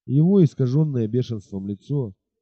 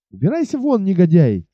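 high, outraged cry; frightened indignant shout; 5 semitones higher, 4 dB louder than usual. Acted. Испуганная Бет выгоняет Уилла, high indignant shout. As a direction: drive him out, scared and furious. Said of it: "закричала испуганная и возмущённая Бетси".

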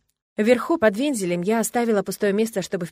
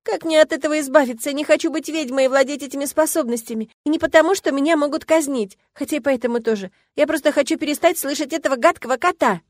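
higher, louder crying plea; tearful plea; 8 semitones higher, 5 dB louder than usual. A narrator's reading. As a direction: plead desperately through tears. Girl crying, pleading. (плачущая мольба)

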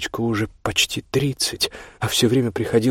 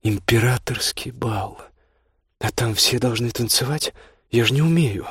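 delighted; 3 semitones higher than usual. Acted. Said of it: "восхищённо проговорила Ольга".

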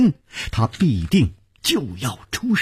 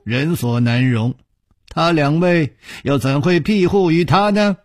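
deliberate, declamatory questioning; stern gang chief; 3 semitones higher than usual. Acted. Nangong challenges Bai Yumo's excuse, stern and declamatory. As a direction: press each question with authority.

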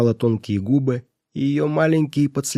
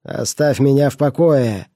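irritated; 3 semitones higher, 4 dB louder than usual. Acted. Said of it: "сказал он".

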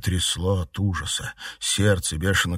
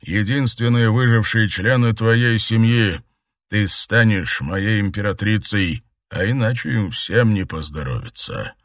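dark lord; 4 semitones higher, 6 dB louder than usual. A narrator's reading. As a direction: threaten coldly. Emperor blackmails.

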